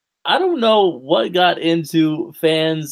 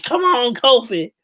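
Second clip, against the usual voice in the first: high, pleading cheer; urging him on under your breath; higher excited come on; rooting; 8 semitones higher, slower than usual. Retold or imitated. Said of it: "I was like".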